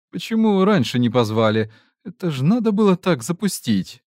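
rising, indignant scold; scolding mage. A narrator's reading. Scolding mage's outburst.

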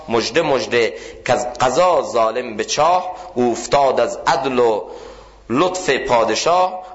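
measured chant of verse, lifting on each line; poem recitation. Acted. Preacher reciting Rumi to the congregation, chanted verse. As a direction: intone the couplets like a proclaimer of good news.

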